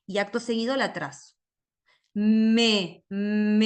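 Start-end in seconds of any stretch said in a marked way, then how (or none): 2.1-3.6 "Me" with the m held long; prolonged sound. Shown as a demonstration. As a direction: stretch the m in "me" for the pupil. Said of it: "prolongo el sonido". (sonido prolongado)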